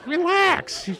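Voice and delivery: high, laughing call to calm down; high laughing relax. Retold or imitated. Speaker calming the upset members, high laughing call. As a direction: tell them to chill, amused.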